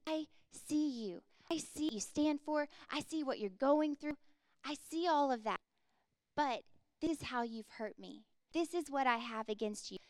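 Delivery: gently correct, with love; tender. Acted. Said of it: "how tender he is in his correction".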